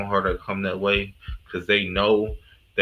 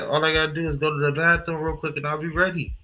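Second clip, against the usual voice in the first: imitating London accent; 6 semitones higher than usual. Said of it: "she said".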